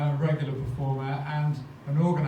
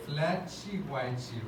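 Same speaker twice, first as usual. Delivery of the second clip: "Flatchy whitey" slow, Brazilian accent adding chi to each word end; 5 dB quieter, much slower than usual. Shown as a demonstration. Host teasing Flo by saying a flat white in a Brazilian accent. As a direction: drawl it out the carioca way, with "chy" endings. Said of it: "with the accent".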